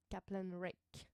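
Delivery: slow, put-on English accent; unhurried mock English pronunciation. Shown as a demonstration. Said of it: "J'aime bien faire l'accent, euh, anglais".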